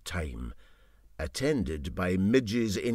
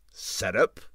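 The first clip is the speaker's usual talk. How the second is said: inquiring. Acted. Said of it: "said the engineer inquiringly".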